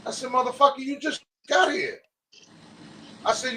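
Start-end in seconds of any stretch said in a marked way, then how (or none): 0.3-2.0 retold shout, pitch jumping higher; half-acted yell at a friend who just arrived; mock yell. Retold clash with Ish at bar.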